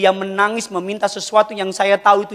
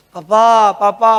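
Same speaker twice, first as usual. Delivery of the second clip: imitated louder insistent call; angry toddler calling; 4 semitones higher, 6 dB louder, slower than usual. Toddler wanting papa's hand while learning to walk, insistent imitated call. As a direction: call out crossly like a small child. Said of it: "Dia marah sama saya".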